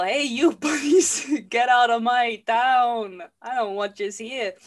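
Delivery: loud, slow, hammed-up town bully; playful comic shout; mock shout. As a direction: bellow them out of town. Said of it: "But he's all".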